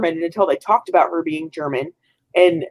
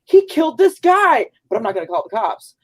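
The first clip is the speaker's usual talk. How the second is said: mock indifference; 3 semitones higher than usual. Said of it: "It was like".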